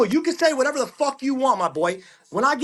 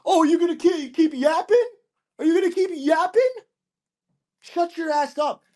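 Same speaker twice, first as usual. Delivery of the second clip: mocking tough guy; 4 semitones higher than usual. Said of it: "You could act like a big dog".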